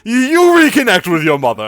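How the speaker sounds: wink through the words; sly suitor. Acted. Aaron slyly tells Matthias to reconnect with his mother. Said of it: "He goes".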